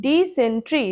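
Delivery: ডিসেন্ট্রি in three distinct parts; syllable-by-syllable ডিসেন্ট্রি; split into syllables. Shown as a demonstration. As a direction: separate ডি, সেন, ট্রি evenly. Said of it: "কটা ভাগে ভাঙতে পারছি".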